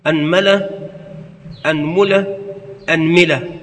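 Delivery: أنملة with fatha on the hamza, mim said first with a, then u, then i; أنملة said as anmala, anmula, anmila; vowel variants. Shown as a demonstration. Teacher demonstrating the word's vowelings, careful articulation. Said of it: "وفي الميم ثلاثة أوجه".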